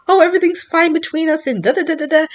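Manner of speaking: high, loud, airy mockery; mock breezy voice. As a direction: parody someone acting like nothing happened. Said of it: "walking around like buddies".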